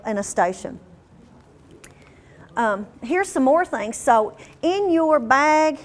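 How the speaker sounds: ordinary talk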